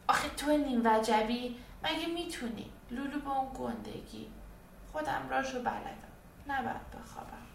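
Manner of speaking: put-on child voice fading to a scared near-whisper; doubtful girl. Girl tells teddy he's too small, then whispers she won't sleep. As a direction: she knows a secret way: stay awake.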